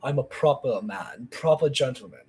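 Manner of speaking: put-on prim German accent; proper German gentleman. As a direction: play a dignified German gentleman. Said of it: "He's this very".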